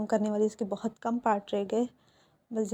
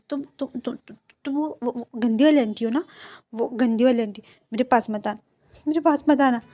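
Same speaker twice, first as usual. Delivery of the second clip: stammering, then louder and pleading; frightened shout; 4 dB louder than usual. Acted. Amnesiac Jaan pushing the nurse away, frightened and loud. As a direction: back away and shout her off.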